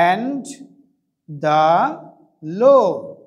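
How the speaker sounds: drawn out with long pauses; slow dictation. Shown as a demonstration. Teacher dictating the English sentence to students, very slowly. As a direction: dictate it piece by piece. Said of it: "কোনো ভেদ থাকবে না".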